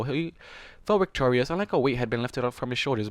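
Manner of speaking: ordinary delivery, nothing marked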